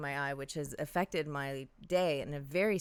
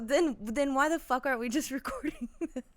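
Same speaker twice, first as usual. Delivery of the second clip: laughing; 10 semitones higher, 4 dB louder than usual. Real, not acted. Teasing, laughing through words.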